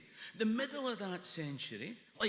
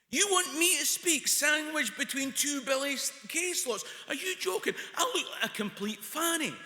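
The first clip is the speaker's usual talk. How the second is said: raised, loud, outraged disbelief; higher and louder indignant complaint; indignant protest; 7 semitones higher, 10 dB louder than usual. Retold or imitated. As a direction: protest like you've been insulted. Protesting to the caller.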